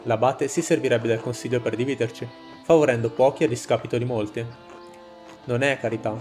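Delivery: steady orator addressing a crowd; rousing speech. Acted. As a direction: speak to the villagers like a rebel leader. Reads a rebel's speech to villagers.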